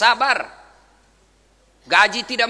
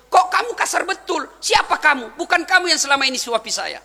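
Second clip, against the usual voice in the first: higher-pitched, suspicious blind man's retort; indignant challenge; 4 semitones higher than usual. Retold or imitated. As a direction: demand to know who this stranger is. Blind man challenges the stranger feeding him.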